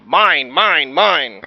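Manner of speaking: loud greedy roar of mine. Acted. Dinosaur roaring at the schoolyard, loud. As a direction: roar it to the whole yard. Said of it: "he roared to one and all".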